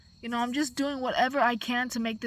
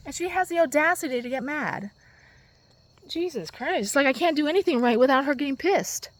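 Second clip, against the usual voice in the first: louder frustrated venting; louder, worked-up rant; 2 semitones higher, 8 dB louder than usual. Real, not acted. Venting about mother.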